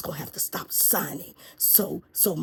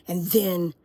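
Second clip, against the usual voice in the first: slow, drawn-out, petulant demand; whiny demanding president; 2 semitones higher, slower than usual. Acted. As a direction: stretch it out like a spoiled boss. President demands more orders.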